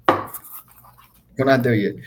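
very slow, quiet, stretched out; slow emphatic. Shown as a demonstration. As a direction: drag each word out slowly.

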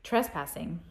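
one word at a time, with pauses; clipped single words, each one alone; staccato. Shown as a demonstration. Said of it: "build the story one word at the time".

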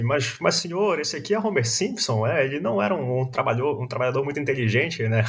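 Smithers voice. Retold or imitated. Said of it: "o Smithers fala assim".

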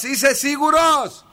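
high, drawn-out warning question; calling out. Real, not acted. Host hinting that the caller should switch bombs, high drawn-out call. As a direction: call it out high, stretching the words. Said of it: "Αφού σε φώναζα".

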